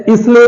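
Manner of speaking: इसलिए as "is-le", S sounded; wrong pronunciation. Shown as a demonstration. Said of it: "L इसलिए नहीं है".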